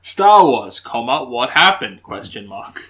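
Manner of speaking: "comma" and "Question mark" spoken as words; punctuation read aloud. Shown as a demonstration. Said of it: "write all of our punctuation phonetically".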